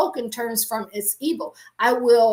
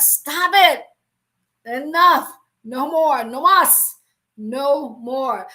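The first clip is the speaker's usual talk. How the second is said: firm stop; 7 dB louder, slower than usual. Real, not acted. Preacher cutting off complaints.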